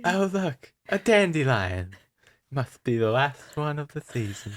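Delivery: a hint of a smiling lisp; lisping fairy. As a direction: lisp sweetly through a smile. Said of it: "trying to have a lisp while smiling".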